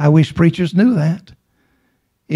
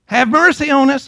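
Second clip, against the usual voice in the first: imitated crying out; 8 semitones higher than usual. Preacher as blind men behind Jesus, imitated crying out. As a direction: call out imploringly, as if quoting. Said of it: "crying and saying".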